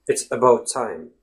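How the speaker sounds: "It's about time" joined up, with "about" starting on uh; measured "It's about time" with a light schwa in "about"; reduced schwa. Shown as a demonstration. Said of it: "If you slow down your speech".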